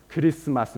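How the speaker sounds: "Christmas" with extra vowels between consonants; Japanese-style added vowels. Shown as a demonstration. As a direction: say "Christmas" as kuh-ree-su-mas. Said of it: "they put vowels everywhere".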